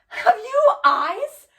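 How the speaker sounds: high, loud, drawn-out cry rising at the end; outraged challenge. Acted. Hamlet confronts the widow over her husbands, loud outraged cry. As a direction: hurl the question out in accusation. Hamlet's acted accusation, first take.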